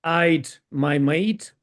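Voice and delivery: slow, deliberate Cockney greeting, every sound shown; slow Cockney accent. Shown as a demonstration. Repeating it for a colleague who asked sorry, slow Cockney accent. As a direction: repeat the Cockney hello slowly so they catch it. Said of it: "It is a Cockney accent".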